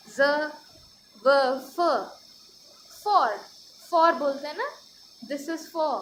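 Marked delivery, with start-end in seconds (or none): 3.0-3.3 for said higher and louder with a soft f; soft f demo. Shown as a demonstration. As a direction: stress the gentle f in for. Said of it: "उस फ को बड़े आराम से बोला जाता है".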